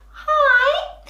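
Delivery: "Hi!" sung out very high; high, mousy demonstration; high squeak. Shown as a demonstration. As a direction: squeak the word "Hi!" like a mouse. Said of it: "Mice squeak".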